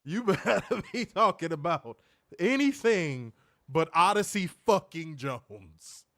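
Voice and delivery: loud, laughing warning; laughing outrage. Real, not acted. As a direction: threaten through laughter.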